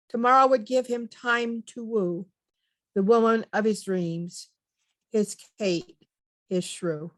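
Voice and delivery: measured recital, pausing after each line; comic poem reading. Acted. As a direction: read rhyming verse aloud as a little tale. Reads a silly rhyming poem.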